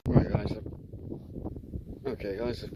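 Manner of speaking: muffled inside a helmet, visor down; inside a motorcycle helmet. Real, not acted. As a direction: talk through a closed helmet. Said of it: "move my visor up so I can see".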